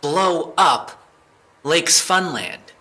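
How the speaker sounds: flustered suspect protesting under interrogation; panicked denial. Acted. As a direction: plead innocence, voice climbing in panic. Suspect denies the bombing accusation.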